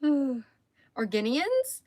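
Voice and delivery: "Organians" drawn out slowly as a question; doubtful coinage. Shown as a demonstration. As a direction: try out "Organians" slowly, unsure it is right. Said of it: "that doesn't sound right".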